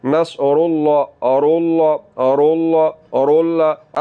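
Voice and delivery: अल्लाह with full heavy लाम; teacher drilling heavy अल्लाह; heavy lam in Allah. Shown as a demonstration. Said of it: "लाम को हमने पुर करके पढ़ना".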